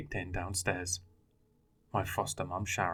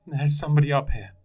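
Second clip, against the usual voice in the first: higher, louder call down; calling back; 7 semitones higher, 10 dB louder than usual. Acted. Boy calls down the hatch to his foster dad. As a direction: call out scared for help. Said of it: "I called back".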